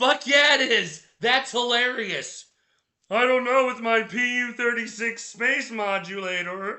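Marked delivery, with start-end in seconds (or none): 3.1-6.8 cartoon martian space-villain voice. Quoting a cartoon line about a space modulator: Marvin the Martian voice. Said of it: "I can never do his voice".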